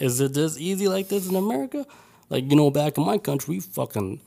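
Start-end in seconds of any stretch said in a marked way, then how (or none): 0.0-1.9 disbelief. Retold or imitated. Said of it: "fuck, it's like".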